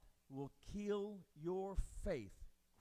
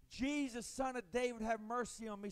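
1 retold shout; 6 semitones higher, 4 dB louder than usual. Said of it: "he shouted even louder".

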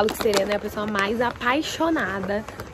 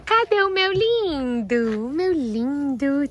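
pet talk; 9 semitones higher, 4 dB louder than usual. Real, not acted. Owner fussing over her horse at the stable, high baby talk. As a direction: gush at the horse in a high coo.

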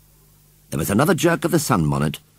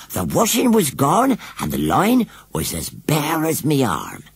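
much higher, slow wailing washerwoman; rising lament; 8 semitones higher than usual. Acted. Missus Briggs wailing to Missus Braithwaite, higher lament. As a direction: wail the repeat, building the woe. Repeats her loss, more worked up.

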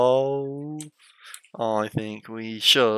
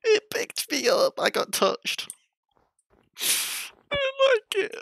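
high, rattled voice after a scare; shaken and high-pitched. Real, not acted. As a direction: squeak it out still shaken. Shaken after scary fight.

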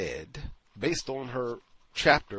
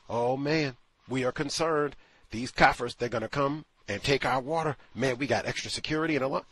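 mocking quote; 4 semitones higher, 4 dB louder than usual. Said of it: "direct quote".

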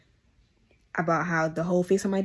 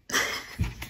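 quiet, breathy chuckle; small laugh under the breath; short laugh; 5 dB quieter than usual. Real, not acted. Vlogger amused after asking viewers to be proud, short laugh.

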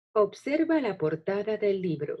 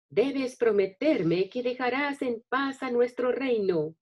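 higher, firm royal command; commanding princess; 5 semitones higher than usual. Acted. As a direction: order the dragon like a brave princess. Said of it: "haz que tu voz también suene emocionante".

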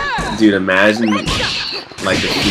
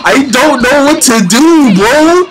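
high, loud panicked crying; losing it, half laughing, half crying; panicked scared; 5 dB louder than usual. Real, not acted. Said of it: "I'm, like, actually scared".

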